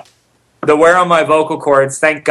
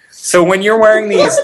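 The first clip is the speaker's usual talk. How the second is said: laughing; 6 semitones higher than usual. Real, not acted. Laughing while speaking.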